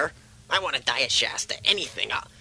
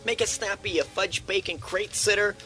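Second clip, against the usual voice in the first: cranky bossy yell; 7 semitones higher than usual. Acted. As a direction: order the staff about impatiently. Patient yells orders at nurse.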